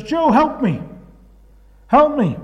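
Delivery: high, pleading call to his friend; mock cry for help. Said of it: "He shouts".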